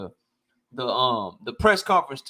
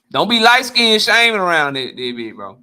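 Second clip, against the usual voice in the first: louder repeat, laughing off the comment; 5 dB louder than usual. Real, not acted.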